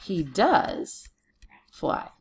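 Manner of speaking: DOES leaned on, pause before fly; emphatic DOES with a rising lift; stress on DOES. Shown as a demonstration. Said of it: "gives us the emphasis".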